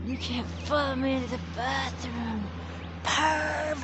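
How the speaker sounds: high teasing perv; mock scolding perv; teasing jab. Teasing camera follower.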